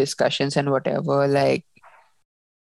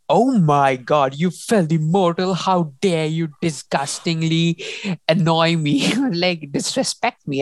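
hammed-up queenly fury at a servant; mock outrage. Imitating the queen scolding her servant, mock furious. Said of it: "she's, like, livid".

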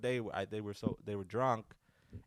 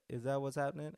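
imitated French accent, pitched up; 4 semitones higher than usual. French friend asking what's going on, imitated French accent. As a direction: ask it as a put-on Frenchman. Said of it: "when you can do the accent".

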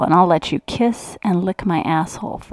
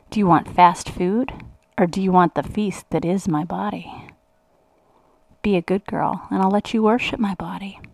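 measured, teasing recitation with pauses between phrases; lightly commanding seductive mantra. Acted. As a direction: recite it like a coaxing mantra, line by line.

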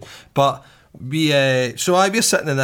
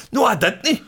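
higher whiny denial; lightly voiced copper, whining no; mock copper denial; 9 semitones higher than usual. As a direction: mimic the copper protesting. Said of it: "And he went".

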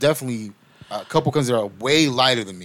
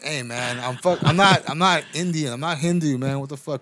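higher-pitched exasperated protest; indignant cousin; 4 semitones higher than usual. Retold or imitated. Cousin correcting people who think he's Hindu, indignant. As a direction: imitate an annoyed cousin setting people straight. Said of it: "he's like".

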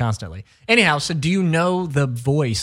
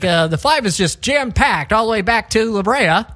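lightly voiced traffic reporter; a hint of a radio traffic guy; 4 semitones higher, 3 dB louder than usual. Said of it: "sounds almost like he knows".

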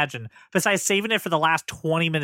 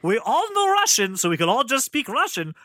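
hammed-up Russian accent, rising higher midway; mock Russian accent; 4 semitones higher than usual. Reunited spy family talking to each other, mock Russian accent. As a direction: imitate a fake movie Russian accent. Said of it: "get back together like".

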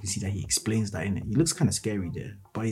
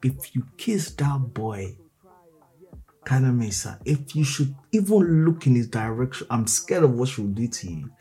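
threatening; 2 semitones higher than usual. Retold or imitated. Jealous girl threatening Kaname.

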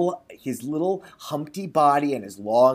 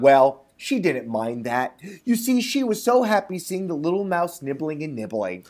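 measured storybook reading; lightly performed storyteller; story narration. A narrator's reading. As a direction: read it like a folk tale aloud. Reads a folk tale.

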